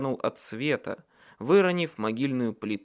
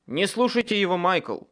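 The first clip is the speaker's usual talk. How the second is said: настойчиво, тревожно; 6 semitones higher, 4 dB louder than usual. A narrator's reading. Hero urgently warns his friend.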